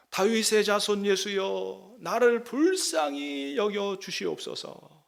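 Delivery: slow, drawn-out plea of a blind beggar; crying out to Jesus. Retold or imitated. Blind beggar crying out to Jesus, slow pleading. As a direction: call out slowly, begging for mercy. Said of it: "소리를 지르면서 부릅니다".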